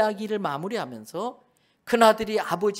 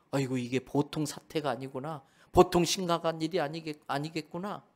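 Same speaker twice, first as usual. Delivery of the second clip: a hint of a nervous servant, softer and lower; worried servant; 3 semitones lower, 5 dB quieter than usual. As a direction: servant realizing trouble, murmured under breath. Frightened servant muttering aside. (걱정스러운 종의 낮고 조용한 혼잣말)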